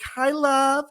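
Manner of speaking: imitated very high-pitched greeting; Tori. Friend greeting him before a big hug, imitated high coo. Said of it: "And Tori was like".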